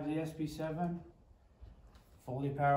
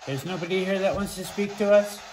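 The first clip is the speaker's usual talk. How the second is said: calling out loudly; 5 dB louder than usual. Real, not acted.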